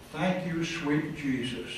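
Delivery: whisper-soft relief of a freed woman; grateful murmur. Retold or imitated. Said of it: "encouraging words".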